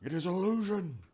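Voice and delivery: high-pitched acted shout; the speaker. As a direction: call it out to someone at a distance. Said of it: "you can hear him yelling".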